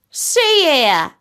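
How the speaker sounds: the fed-up tortoise bursting out; exasperated tortoise. A narrator's reading. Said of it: "he said".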